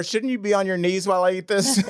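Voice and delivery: quick, laughing, hammed-up domineering question; laughing mock boss. Co-host teasing Jim with a laughing mock-domineering line. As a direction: tease him as a smug master, laughing.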